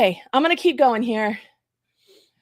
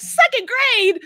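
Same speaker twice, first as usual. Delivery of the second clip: retold surprise; 10 semitones higher, 6 dB louder, slower than usual. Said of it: "And I'm like".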